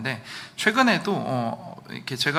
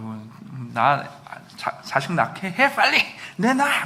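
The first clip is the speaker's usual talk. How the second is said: threatening demand; slower than usual. Retold or imitated. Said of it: "막 이러면서 협박을 하고".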